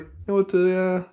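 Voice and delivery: imitating a Missouri drug dealer's strong accent; strong rural accent. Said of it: "these really strong accents".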